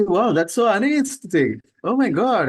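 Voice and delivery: drawn-out mock horror at the ugliness; mock dismay. Imagined disciple shocked by ugliness.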